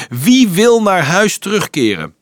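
high, loud call to a crowd. A narrator's reading. Johannes asking thousands of children, calling out. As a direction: shout the question hopefully to everyone. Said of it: "Johannes riep".

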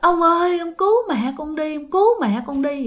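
retold tearful plea. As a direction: plead like a child, without real sobbing. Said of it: "Nó khóc lên, nó nói".

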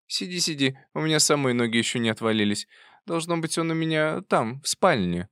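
lightly voiced old aunt, brisk. A narrator's reading. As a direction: wave her niece off, briskly.

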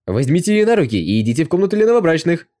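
rowdy joyful mob shout; crowd roaring cheerfully. A narrator's reading. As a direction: roar it like a whole crowd of soldiers. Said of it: "начали радостно кричать".

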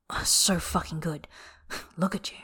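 soft, voiceless awe; whispered praise. Acted. Bai praising lover after climax.

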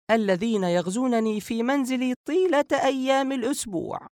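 high-pitched, playfully pleading woman's voice; laughing protest. A narrator's reading. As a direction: protest in a high, mock-desperate voice. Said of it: "عائشة ضاحكة". (احتجاج مرح بصوت نسائي عال)

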